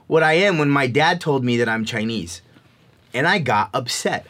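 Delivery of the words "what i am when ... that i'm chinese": put-on higher, defiant child's comeback; silently fuming at the teacher; a touch of mock outrage; indignant inner retort. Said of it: "in my head anyway".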